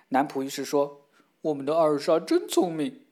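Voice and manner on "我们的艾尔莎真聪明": manservant admiring. Acted.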